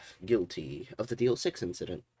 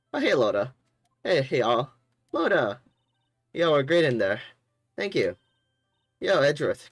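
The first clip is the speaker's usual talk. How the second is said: higher, louder chirpy voice; loud southern girl; 4 semitones higher, 4 dB louder than usual. Acted. Photographer congratulating the team, loud and chirpy. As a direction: greet everyone with big energy.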